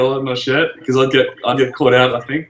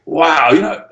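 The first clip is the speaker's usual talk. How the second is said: impression of stranger; 2 semitones higher than usual. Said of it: "He said".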